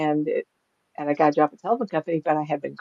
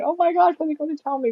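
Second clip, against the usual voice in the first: high-pitched mock dismay; retold apprehension; 10 semitones higher, faster than usual. Sitter dreads what the reader will tell her, mock dismay. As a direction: start high, as if bracing for news.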